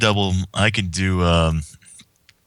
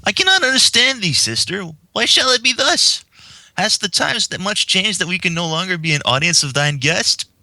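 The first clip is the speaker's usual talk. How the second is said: put-on much higher, old-fashioned royal voice; Princess Luna voice; 11 semitones higher than usual. Luna asking her sister why she cannot meet the guest, high and regal. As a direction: plead in lofty archaic speech.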